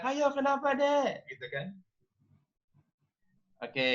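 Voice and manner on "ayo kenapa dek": mock yell. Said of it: "ada yang teriak".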